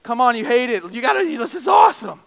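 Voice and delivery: coaxing, rising into an excited gush; pleading excitement. Retold or imitated. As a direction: try to win her over. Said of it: "And I'm like".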